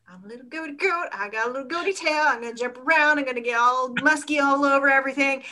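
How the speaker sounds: silly fast goat voice; playful goat voice. Pretend. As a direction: prance and bleat it like a goat. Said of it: "think like a goaty goat".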